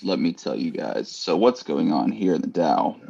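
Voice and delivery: lightly voiced late night DJ. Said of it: "Late night A M D J voice".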